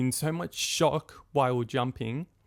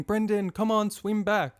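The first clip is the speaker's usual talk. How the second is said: high-pitched, mild mock yell; retold yelling; 7 semitones higher than usual. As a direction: imitate people calling a swimmer back. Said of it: "everybody's yelling".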